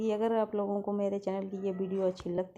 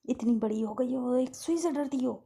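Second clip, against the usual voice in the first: louder, higher chiding; firm loud scolding; 5 semitones higher, 5 dB louder than usual. Acted. Caretaker chiding the girl for fearing a needle, loud and firm. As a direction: chide her firmly. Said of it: "कहती".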